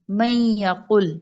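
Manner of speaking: slow drawn-out میں یا قل with the nun merged into ya; teacher reads میں یا قل slowly, nasal ghunna held; slow recitation. Shown as a demonstration. Quran teacher demonstrating to students, slow drawn-out recitation. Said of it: "مشق میں پہلا لفظ دیکھیے".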